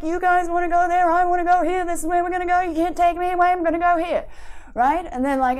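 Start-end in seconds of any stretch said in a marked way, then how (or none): 0.0-4.2 higher, louder, insistent inner anxiety refusing to budge; stubborn anxiety. Acted. Anxiety grabs the controls, higher and louder and insistent. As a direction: dig in your heels like a scared kid. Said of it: "Anxiety's like".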